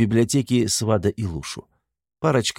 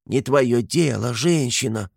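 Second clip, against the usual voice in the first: медленно, в нос передразнивая мужа; лёгкая насмешливая пародия на Гремлуна; 4 semitones higher, slower than usual. Retold or imitated. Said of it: "Очень похоже передразнила она Гремлуна". (слегка передразнивая мужа)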